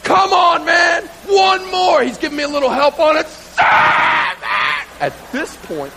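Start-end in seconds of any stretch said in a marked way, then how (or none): 0.0-2.0 high, loud spotter encouragement; coach screaming. Retold or imitated. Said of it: "a guy screaming at him". 3.3-4.5 unvoiced straining shout; strained yell. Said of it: "hears all this screaming".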